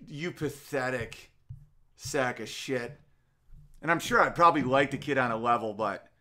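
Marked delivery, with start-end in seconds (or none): 0.1-3.0 soft, slow, sneering insult; quiet contempt. Acted. A host sneering at a heckler's son, softly and slowly contemptuous. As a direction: drop the voice and drag the words out with disdain.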